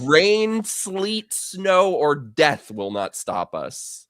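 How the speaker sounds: lightly mock ad announcer, slowing to the end; a hint of a solemn advert tagline; commercial slogan. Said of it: "a commercial for them".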